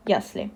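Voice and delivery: "ясли" stressed on its first syllable. Shown as a demonstration. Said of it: "the stress falls on the first part".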